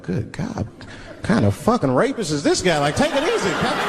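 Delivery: rising disbelief, pitch climbing high; horrified at the cartoon; shocked uncle going up in pitch; appalled. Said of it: "I'm looking like".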